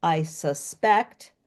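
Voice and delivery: very slow "suspect", stress on second syllable; "I suspect" drawn out, second syllable stressed; verb stress demo. Shown as a demonstration. Teacher showing the verb form, slow stress demo. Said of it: "that's an action".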